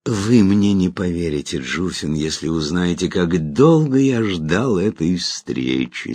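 insinuating, slow and silky; Maha Avinti's voice. Acted. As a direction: purr it like a luring spirit. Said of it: "вкрадчивым голосом сэра Махи Авинти".

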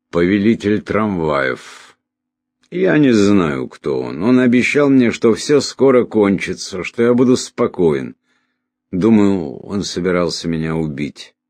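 agitated delirious man, pitch rising in bursts; confused dying stranger. Acted. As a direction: play a dying man anxiously piecing memories together.

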